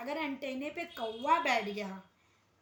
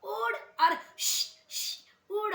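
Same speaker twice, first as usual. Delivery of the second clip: loud, sharp shoo calls at crows; 8 semitones higher, 8 dB louder, slower than usual. Retold or imitated. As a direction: chase the crow off with short calls. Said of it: "कौवे को उड़ाता था".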